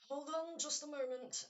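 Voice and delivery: loud call through the door. Acted. NPC calling through the door, loud. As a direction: shout it from behind a closed door.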